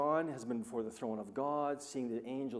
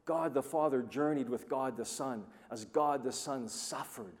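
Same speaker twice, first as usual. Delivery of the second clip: usual speaking voice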